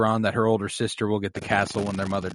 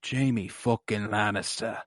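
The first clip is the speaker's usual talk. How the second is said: Bronn's drawn-out line; 3 semitones lower, 9 dB quieter, slower than usual. Retold or imitated. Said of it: "the inflection in his voice".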